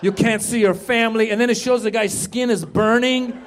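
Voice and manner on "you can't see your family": emphatic, measured doom-laden voiceover; hammed-up commercial narrator; mock ad voiceover. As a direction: warn like a scare commercial. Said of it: "And the voiceover is like".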